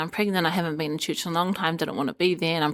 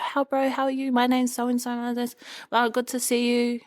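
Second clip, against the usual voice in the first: imitated friendly greeting; 5 semitones higher than usual. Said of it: "everyone's talking to you and they say".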